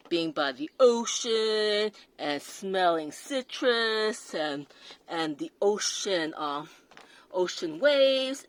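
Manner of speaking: lilting mock-poetic voice, slowed down; mock-dreamy. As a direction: drawl the marketing fluff out dreamily. Mocking the perfume ad copy.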